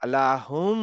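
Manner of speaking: লাহুম with the final m held in the nose two counts; nasal ghunna. Shown as a demonstration. Teacher stresses the ghunna for students. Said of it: "নাকে তুলে গুন্নাতে".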